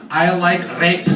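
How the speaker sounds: lightly voiced Czech woman on a date; Czech accent. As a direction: do a Czech girl's accented English. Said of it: "She's Czech. And she says".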